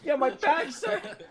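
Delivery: put-on high, laughing girl voice; hammed-up anime schoolgirl. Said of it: "best girl voice I got".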